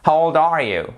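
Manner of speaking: put-on "How old are you?" qui part haut puis descend; intonation descendante. Shown as a demonstration. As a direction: fais tomber la voix sur "you". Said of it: "Donc là, intonation descendante". ("How old are you?", mélodie qui retombe à la fin)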